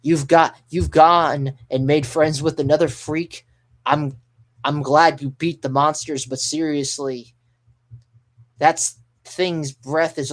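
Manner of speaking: acted scolding, loud at the start; mock telling-off that eases as it goes; Nami. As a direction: scold them as a pissed-off crewmate. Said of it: "I'm gonna say it just like she's saying".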